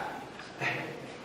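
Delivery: soft, breath-only mock chuckle; quiet scornful put-on snicker; contemptuous fake laugh. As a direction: imitate a dismissive fake laugh. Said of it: "He does this contemptuous fake laugh".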